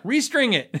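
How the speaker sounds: deadpan answer. Retold or imitated. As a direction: throw it back flatly. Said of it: "They're like".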